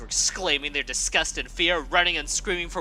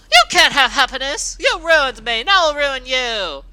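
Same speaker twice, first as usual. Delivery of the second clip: loud, high furious yelling; 9 semitones higher, 11 dB louder than usual. Acted. Rainbow Dash raging at Scootaloo for finding comfort, furious yell. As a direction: yell it with even more fury. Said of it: "yelled with even more fury".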